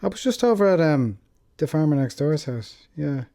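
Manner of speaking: high, laughing gossip; gossiping neighbor. Retold or imitated. The speaker imagines a neighbor griping about the farmer, high and giggling. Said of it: "imagine the neighbors coming home and going".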